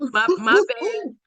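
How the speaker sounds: high-pitched sheepish backdown. Retold or imitated. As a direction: back down comically, voice shooting up. Sheepish reply to God's correction.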